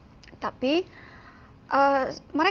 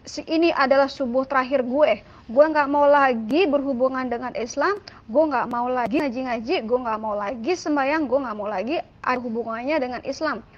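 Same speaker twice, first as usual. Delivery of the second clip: retold angry renunciation, mildly raised voice; rough, defiant. Speaker renouncing faith to God, rough and mildly raised. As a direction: reenact a blunt ultimatum, insistently repeated. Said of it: "ngomong agak keras, ngomong agak kasar".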